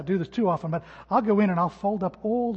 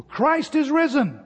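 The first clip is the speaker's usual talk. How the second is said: higher, louder, slow call-out; yelled proclamation; 8 semitones higher, 6 dB louder, slower than usual. Retold or imitated. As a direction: call it out to the crowd like the old minister. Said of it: "used to always yell out to".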